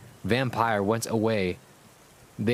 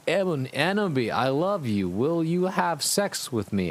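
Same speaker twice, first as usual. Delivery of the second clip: lovesick villain; 5 semitones higher than usual. Acted. Villain proposes again.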